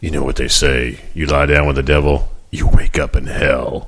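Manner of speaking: deep, slow, rough, gruff put-on voice. Acting out a man who removes his sunglasses and eyes the camera, gruff voice. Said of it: "very in his gruff voice".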